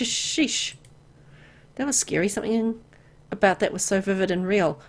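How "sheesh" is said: whispered. Real, not acted. Catching herself mid-curse.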